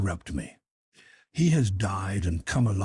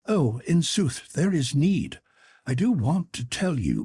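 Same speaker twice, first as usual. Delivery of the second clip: Clarence quaking, pitched up; scared page, higher voice; frightened boy; 6 semitones higher than usual. Acted. Clarence fearful.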